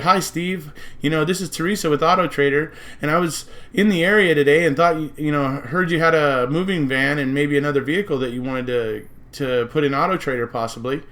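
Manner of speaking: bright friendly sales pitch on a phone; upbeat voicemail, selling yourself; leaving a voicemail. Pretend. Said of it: "she would have said".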